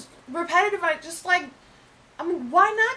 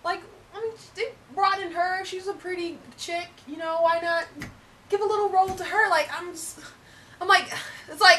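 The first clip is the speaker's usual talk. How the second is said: fake British accent. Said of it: "we're doing our accents".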